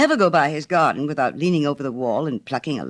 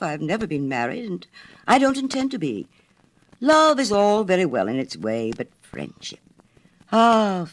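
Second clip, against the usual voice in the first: pompous water rat; 3 semitones higher than usual. Acted. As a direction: hold forth grandly about friendship. Water rat lectures on friendship.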